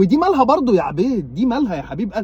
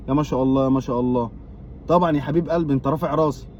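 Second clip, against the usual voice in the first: sarcastic praise; 4 semitones lower, 4 dB quieter than usual. Acted. Sarcastic praise of low score.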